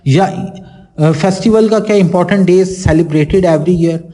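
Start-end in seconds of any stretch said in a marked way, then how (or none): none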